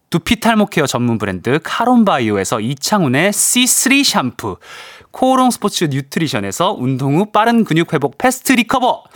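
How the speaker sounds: crisp syllable-by-syllable reading; over enunciating. Shown as a demonstration. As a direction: announce each prize crisply and precisely. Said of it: "정확한 또박또박한 발음으로 한번 읽어볼 테니까".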